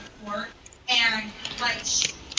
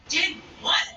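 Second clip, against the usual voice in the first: high-pitched incredulous question; retold disbelief; 7 semitones higher, 4 dB louder than usual. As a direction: play baffled, voice jumping up. Retold denial in a confrontation.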